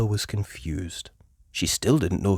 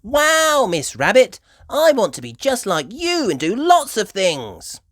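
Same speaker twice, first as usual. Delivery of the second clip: put-on high, loud little girl; excited admiration; 12 semitones higher, 6 dB louder than usual. A narrator's reading. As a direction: gasp in awe at Miss Rabbit. Peppa admiring.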